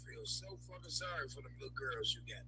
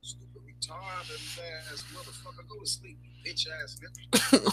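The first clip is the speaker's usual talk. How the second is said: angry yelling; 4 semitones higher, 6 dB louder than usual. Real, not acted. Angry rant at a commenter.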